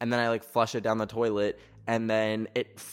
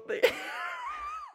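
high, thin squeal on the edge of crying; tearful laugh; 5 dB quieter than usual. Real, not acted. Getting emotional over a plastic Minion, tearful laugh. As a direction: break into a squeaky, teary laugh. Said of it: "why am I crying".

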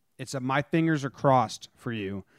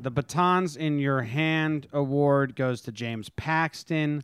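slow, grand award presentation; award announcer; slower than usual. Acted. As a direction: announce it like a ceremony host. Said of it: "under my name forever".

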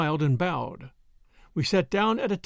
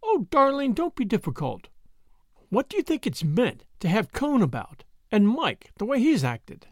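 lightly voiced exasperated woman, pitched up; Brett, exasperated; 5 semitones higher than usual. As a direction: protest to a dear friend with a touch of exasperation. Voices Brett protesting to Jake.

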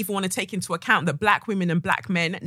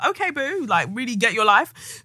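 retold reaction; 4 semitones higher than usual. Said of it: "I was just like".

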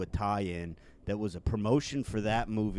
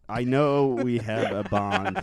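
French snake character; 2 semitones higher, 6 dB louder, slower than usual. Acted. Snake puppet voice.

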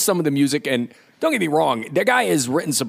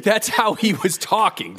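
laughing; 6 semitones higher, slower than usual. Real, not acted. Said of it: "laughing while talking".

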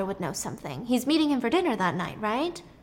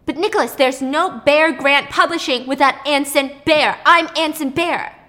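desperate plea; 4 semitones higher, 8 dB louder than usual. Retold or imitated. Fired man pleads with boss.

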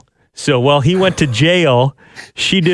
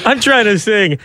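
higher-pitched mock Irish protest, amused; imitated Irish accent; 7 semitones higher than usual. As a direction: play a frustrated singer with a put-on Irish accent. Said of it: "a singer from a band was in there".

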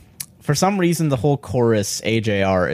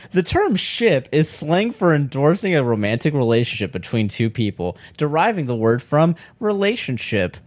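announcer voice; 5 semitones higher than usual. Acted. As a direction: read it like a hype announcer. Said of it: "my announcer voice".

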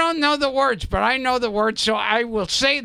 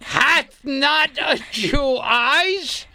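slow Shakespearean declaiming; 3 semitones higher, slower than usual. Pretend. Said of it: "coaching Shylock speech".

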